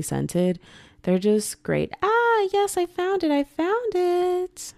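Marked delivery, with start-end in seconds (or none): 2.0-4.7 triumphant. Real, not acted. Finding the website.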